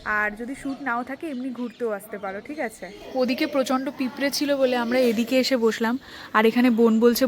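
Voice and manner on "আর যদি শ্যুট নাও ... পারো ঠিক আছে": hushed temple voice; soft, subdued vlog chat; speaking softly. Real, not acted. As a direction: talk quietly to the camera in a peaceful temple. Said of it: "আমি খুব আস্তে আস্তে কথা বলছি".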